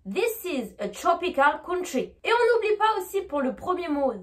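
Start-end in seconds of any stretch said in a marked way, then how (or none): 0.1-2.1 slow model, TROPICAL COUNTRY as "chropical counchry"; slowly, ch for TR in TROPICAL and COUNTRY. Shown as a demonstration. Teacher for repetition, TROPICAL COUNTRY with ch. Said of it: "Répétez après moi".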